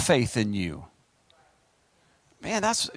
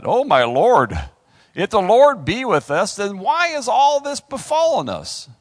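louder, bold "Oh, my Lord", pressing the question hard; bold challenge; 3 semitones higher, 6 dB louder than usual. Shown as a demonstration. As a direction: confront God boldly with "Oh, my Lord" and the why. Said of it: "That's pretty bold".

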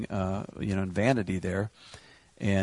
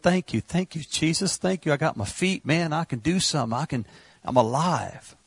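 joyful praise; 4 semitones higher than usual. Acted. Acting out joyful thanks in worship.

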